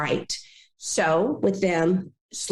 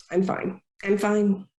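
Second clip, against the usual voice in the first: mock I'm fine. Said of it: "And they go".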